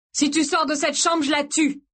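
aiguë, tendue vers la menace de mort; menace furieuse. A narrator's reading. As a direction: lance un ultimatum plus haut que ta voix normale. (menace de mort, rageuse)

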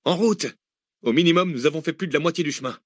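high, bright, fast rally cry; rally them on; almost joyful. Acted. Zach rallying the exhausted group, almost joyful. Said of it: "presque joyeuse".

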